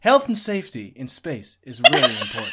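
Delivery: deadpan to camera. Acted. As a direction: deliver it straight as a deadpan public warning. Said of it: "he's then gonna deadpan and face the camera".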